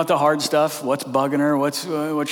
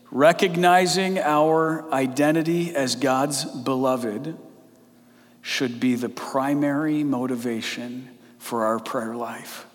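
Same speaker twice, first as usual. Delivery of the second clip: reading the quote. Shown as a demonstration. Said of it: "They said this".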